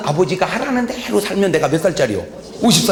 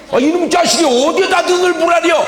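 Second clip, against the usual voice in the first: father yells at his son, higher and louder; father explodes at his son, high and loud shout; furious father shout; 11 semitones higher, 4 dB louder than usual. Acted. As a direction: roar at the insolent son.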